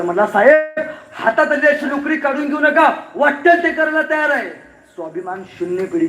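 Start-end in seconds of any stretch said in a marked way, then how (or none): 0.3-4.5 higher desperate plea to the boss; pleading boy. Acted. Jobless boy begging the officer, higher and desperate. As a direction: beg him not to take the job away. ते पोरगं ढसा ढसा रडायला लागलं.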